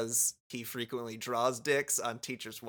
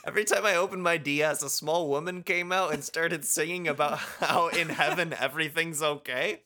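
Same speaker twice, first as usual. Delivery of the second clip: laughing; 4 semitones higher than usual. Real, not acted. Joking comeback, laughing.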